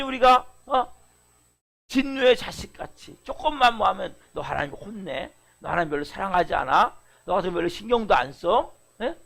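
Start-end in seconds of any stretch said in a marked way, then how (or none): 1.9-8.7 a hint of an accusing tempter; lightly voiced devil taunting the believer; Satan's lie. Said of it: "여전히 사단이 우리를 속이잖아요".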